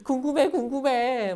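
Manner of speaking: a hint of a fretting king, eager to know; impatient curious king. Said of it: "왕은 마음이 막 애타기 시작했어요". (애타는 왕처럼 살짝 조바심 내며)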